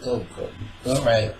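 ordinary talk

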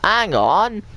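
high, swooping hang-on; startled exclamation. Real, not acted. Sudden alert while playing.

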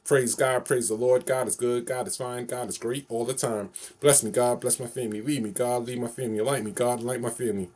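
rhythmic call-and-response prayer recital; steady sing-song praise chant; recited prayer phrase. Shown as a demonstration. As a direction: chant it like a blessing you know by heart. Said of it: "One more time, two more times".

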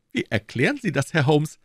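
a self-satisfied detective pleased with himself; Lestrade, smug inspector. Acted. Lestrade voiced by narrator.

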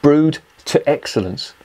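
drawn-out sarcastic quote of the can's slogan; mocking slow read. Real, not acted. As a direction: read the slogan aloud as if it were nonsense. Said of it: "not even fucking good English".

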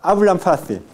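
n of "hablan" said like m before "fácil"; labiodental n. Shown as a demonstration. Teacher models assimilation for class, labiodental n. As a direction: lip to teeth for the n in "hablan".

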